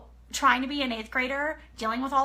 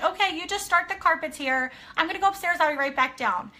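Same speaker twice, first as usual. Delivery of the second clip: bright, higher, forced casual tone; forced normal; 5 semitones higher than usual. Retold or imitated. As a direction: fake calm to hide panic. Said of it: "I'm trying to act normal".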